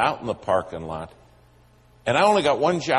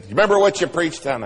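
eager preacher; 7 semitones higher, 5 dB louder, faster than usual. Retold or imitated. Bubbly preacher quizzes him.

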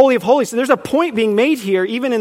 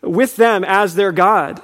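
slow reading with weight on "with"; stress on WITH; slower than usual. Shown as a demonstration. Preacher resuming the corrected verse, stress on "with". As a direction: give "with" the emphasis, slowly. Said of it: "emphasis on the wrong syllable".

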